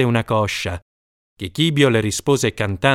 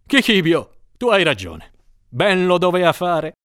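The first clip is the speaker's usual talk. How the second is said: 1 amused lord; 5 semitones higher than usual. A narrator's reading. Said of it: "ira si convertì in festa e riso".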